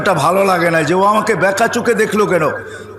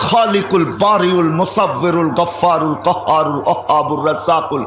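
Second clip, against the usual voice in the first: running chant of sacred names; rapid recitation; 2 semitones lower than usual. Real, not acted. Preacher reciting Allah's ninety-nine names by heart, rapid recitation. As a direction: recite the names in one rolling, rhythmic stream.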